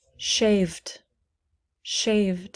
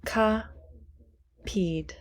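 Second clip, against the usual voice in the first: whispered word; 4 dB quieter than usual. Shown as a demonstration. Teacher whispering a word while counting syllables. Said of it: "how many syllables?".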